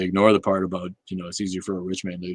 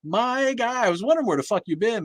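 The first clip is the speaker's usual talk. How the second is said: excited greeting; 7 dB louder than usual. Real, not acted. Greeting a banned viewer.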